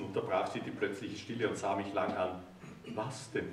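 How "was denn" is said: small, much softer question; meek. A narrator's reading. The narrator asks the wife meekly, much softer. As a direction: ask it timidly, shrinking back. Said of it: "erkundigte ich mich kleinlaut".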